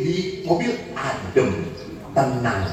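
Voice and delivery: soft, slow and low; serene husband. Retold or imitated. Husband boasts of calm inside his car, serenely. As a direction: savour the peace, imitating a contented husband.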